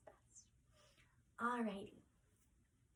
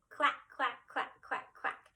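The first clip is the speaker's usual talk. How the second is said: playful duck quacking; duck quacks; 2 semitones higher, 5 dB louder than usual. Shown as a demonstration. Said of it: "ducks say".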